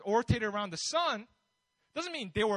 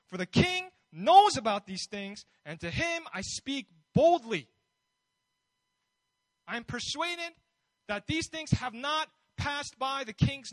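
a touch of bold conviction, read from scripture; bold confident Paul; 6 dB louder than usual. Retold or imitated. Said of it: "hear the boldness and the confidence".

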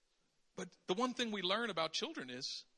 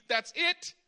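mock angry God; 4 semitones higher, 7 dB louder than usual. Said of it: "God says to Adam and Eve".

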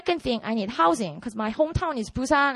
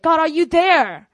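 loud, slow plea, higher than usual; frustrated cry; 4 semitones higher, 7 dB louder than usual. Retold or imitated. Frustrated student calling to an unanswering God, crying out. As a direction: call out to God in drawn-out frustration. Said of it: "I was frustrated".

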